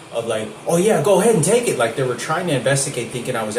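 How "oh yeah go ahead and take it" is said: much higher, louder sarcastic goading; imitating a sneering accuser; mock accusing. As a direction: egg him on, dripping with sarcasm. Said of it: "they were accusing me".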